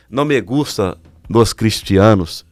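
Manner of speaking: put-on slow, Spanish-accented Portuguese; "Não me gusta dos cristianos" drawn out with a Mexican lilt. Mexican cellmate telling him he hates Christians, slow accented voice.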